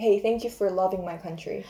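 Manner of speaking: normal talking voice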